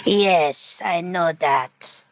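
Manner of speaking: slow, low, drawn out; smug admission. Acted. Tormentor told he's messed up, slow low smug admission. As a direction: drop low and stretch the words.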